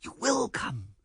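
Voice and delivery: high, exultant certainty; triumphant. A narrator's reading. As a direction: declare victory, pitched high. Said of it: "cried Lewisham triumphantly".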